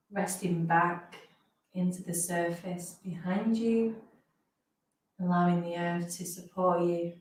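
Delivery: slow phrases with long pauses; guided meditation. Real, not acted. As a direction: ease listeners gently into rest, phrase by phrase.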